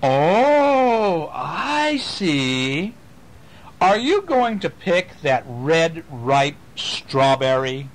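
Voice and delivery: high, slow teasing question. Acted. Reading to children, a high teasing voice tempts the mouse. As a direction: dangle the temptation playfully. Voiced character in picture book.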